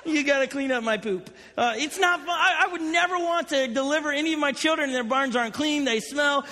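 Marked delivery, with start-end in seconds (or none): 0.0-1.3 mocking horse. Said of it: "the horses behind me laughing".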